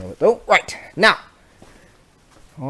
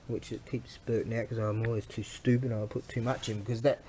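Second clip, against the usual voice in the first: ordinary talk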